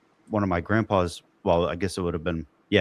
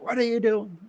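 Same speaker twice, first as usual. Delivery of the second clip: Teddy Dynamite; 13 semitones higher than usual. Retold or imitated. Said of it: "Teddy Dynamite jumps on".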